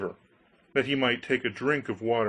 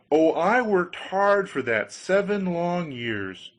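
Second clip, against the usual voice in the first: eager Hans voice; 6 semitones higher, 4 dB louder, slower than usual. Acted. Hans answers.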